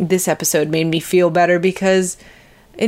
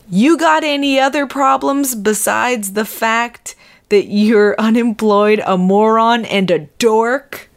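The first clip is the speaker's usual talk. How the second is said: mild mock yell, raised in pitch; John McEnroe; 4 semitones higher than usual. Quoting his outburst at an innocent bystander, mock yelling. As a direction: read out the outburst as a half-hearted yell. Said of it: "John McEnroe apparently yelled this".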